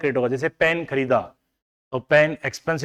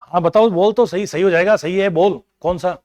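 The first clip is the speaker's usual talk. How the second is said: eager urging; 3 semitones higher, 6 dB louder than usual. Real, not acted. Teacher urging a student to answer.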